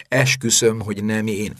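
urgent self-defence, pitched a bit up; Harry protesting. A narrator's reading. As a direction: plead innocence to a teacher. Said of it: "kezdett a magyarázkodásba Harry". (sürgető, védekező magyarázkodás)

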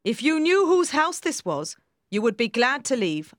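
lightly acted warning to a child; warning nurse. A narrator's reading.

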